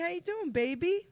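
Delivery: high, loud hype greeting; excited greeting. Real, not acted. Greeting old friend on stream.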